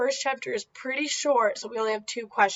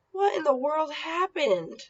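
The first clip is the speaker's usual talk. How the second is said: higher, astonished question; surprised; 4 semitones higher than usual. Acted. Howie sees the changed cafeteria, higher astonished question. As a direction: ask it stunned at the door. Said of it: "Howie asked".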